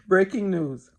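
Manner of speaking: slow, laughing breaking news; amused self-teasing announcement; laughing mock headline. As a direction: chuckle through the headline as you repeat it.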